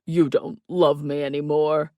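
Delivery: mock-wounded, loud character voice; theatrical lament in a put-on voice; sighing. A narrator's reading. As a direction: sigh it out like a drama king. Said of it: "he sighed in my ear".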